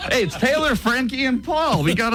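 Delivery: high playful sing-song names; jokey high voice. Pretend. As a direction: pitch way up, joking. Joking three-name roll call.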